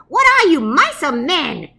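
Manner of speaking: high, loud squeaky challenge; indignant squeaky commander; squeaky mouse. Acted. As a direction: taunt the troops. Big Cheese shames troops.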